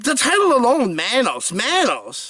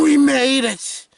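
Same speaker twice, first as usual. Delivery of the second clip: slow triumphant declaration; 8 semitones higher, 3 dB louder, slower than usual. Acted.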